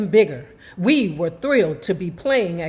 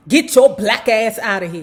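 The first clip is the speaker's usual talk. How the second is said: menacing drawl; 4 dB louder than usual. Retold or imitated. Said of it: "vicious southern drawl".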